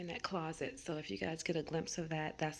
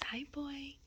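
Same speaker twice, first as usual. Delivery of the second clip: pet talk; 8 semitones higher than usual. Real, not acted. Greeting her dog Hudson.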